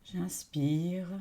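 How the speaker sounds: calm, fully voiced inhale cue; meditative cue to breathe in; breathing-in cue. Real, not acted. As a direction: guide the in-breath in a steady voice. Second in-breath cue, against the out-breath.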